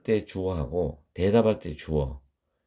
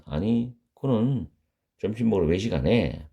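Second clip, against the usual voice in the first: ordinary delivery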